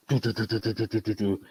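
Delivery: quick even run of little "do" syllables; imitated dog patter. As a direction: rattle off a light, staccato pitter-patter. Imitates twenty dogs as he enters.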